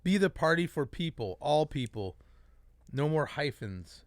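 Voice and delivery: measured reading of a manifesto; letter read aloud. Acted. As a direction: read the open letter point by point.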